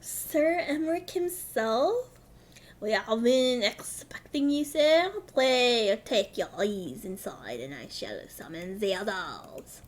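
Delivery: slow, formal voice dropping low; deferential attendant. Acted. Attendant welcoming Sir Emmerich inside, slow deferential voice. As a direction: greet a superior slowly and formally. Voices a game character's greeting.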